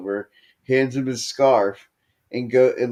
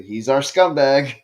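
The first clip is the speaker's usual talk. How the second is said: louder mock announcer's cry; belted out; 3 semitones higher, 5 dB louder than usual. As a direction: belt it out like the commentator. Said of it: "just belts it out".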